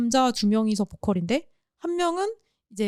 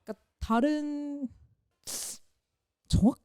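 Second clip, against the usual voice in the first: hesitant, softer, breaking off mid-word; losing confidence; 5 dB quieter than usual. Real, not acted. Host unsure of his own explanation, losing confidence. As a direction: falter as doubt creeps in. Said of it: "갑자기 그렇게 말하니까 자신이 없어지네".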